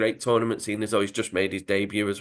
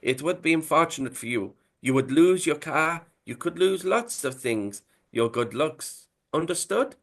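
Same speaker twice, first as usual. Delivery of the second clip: put-on menacing Italian accent; 5 semitones higher than usual. Italian accent, mobster threatening the striker. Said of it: "He says".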